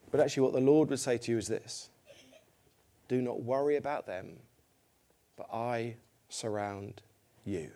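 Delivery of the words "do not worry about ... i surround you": soft, slow voice of God reassuring; tender reassurance. Acted. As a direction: speak it gently, like a comforting promise. Voicing God's gentle reassurance.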